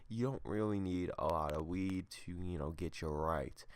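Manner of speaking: normal talking voice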